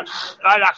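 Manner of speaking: imitated Scouse rasping noises; mock Scouse throat noises. Host mimics Joe's Scouse talk for Ply, mock Scouse noises. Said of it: "he's got a Scouse accent".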